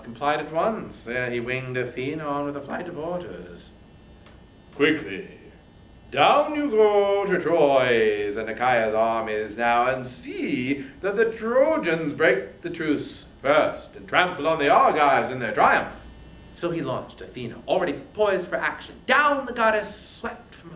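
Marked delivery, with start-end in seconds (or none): 4.7-16.0 loud, slow order from the king of the gods; Zeus commanding. Acted. Zeus loudly ordering Athena down to battle.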